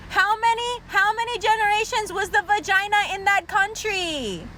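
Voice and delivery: high, strained insistent questioning; exasperated interrogation. Acted. Comic grilling someone about their mother's origins, exasperated. Escalating mock interrogation of the person.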